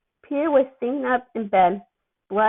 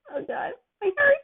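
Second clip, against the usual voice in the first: gushing; 12 semitones higher than usual. Real, not acted. Reader gushing over cute scene.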